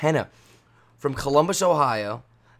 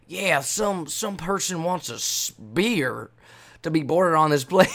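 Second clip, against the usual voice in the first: put-on higher, drawn-out Southern accent; Southern accent, pitched up and breaking into a laugh; Southern flight attendant; 4 semitones higher, much slower than usual. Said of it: "she's from South".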